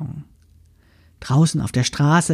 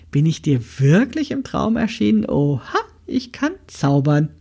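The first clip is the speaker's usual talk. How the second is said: playful teasing. Acted. Grandmother teasing the girls about dreams, playful. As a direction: tease the girls with a wink in the voice.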